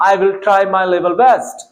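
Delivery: each word laid out slowly and clearly; slow model sentence. Shown as a demonstration. Teacher slowly models a phrase for students. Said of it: "तो आप बोलेंगे".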